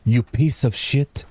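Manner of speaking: put-on sneering "you piece of shit" with a slow, loose European accent; light European villain impression; mock vaguely European accent. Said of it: "I would try and sound like him".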